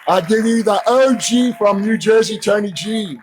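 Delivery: big, loud, high announcer call; hype announcer shout. Real, not acted. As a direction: shout the name to fire up the crowd. MC introduces inductee over music.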